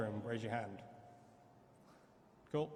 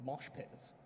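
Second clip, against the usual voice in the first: whispered aside; 7 dB quieter than usual. Real, not acted. Confessing mosh pits kept from security.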